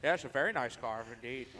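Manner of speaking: lightly voiced languid art snob; art critic impression. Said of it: "What accent is that?".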